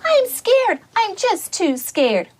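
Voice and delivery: a hint of a frightened duckling, rising on I; small, timid plea to Mama; duckling telling Mama it is too scared; scared little duckling. Duckling voiced in story.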